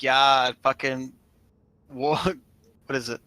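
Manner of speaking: a light Australian accent imitating his friend; mock Australian accent. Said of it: "Why are you trying to talk in his voice?".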